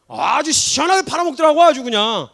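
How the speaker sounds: loud, high jeering; hammed-up needling; mock taunt. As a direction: rub it in his face. Imagined Jesus mocking Peter.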